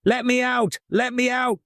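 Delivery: high, thin voice from the oven; small voice calling out. Acted. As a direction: call out in a tiny high voice. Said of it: "called the voice".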